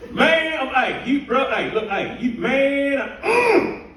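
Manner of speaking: high-pitched, tripping over every word; a fan too thrilled to get a sentence out; hammed-up high babble of an overexcited local guy; excited stammering fan. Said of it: "First words out of his mouth".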